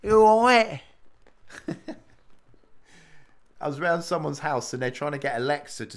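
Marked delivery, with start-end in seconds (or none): 0.0-0.8 high, loud teasing English greeting; mock cheery English call. 0.9-3.6 airy giggle after the joke; breathy laugh. Real, not acted.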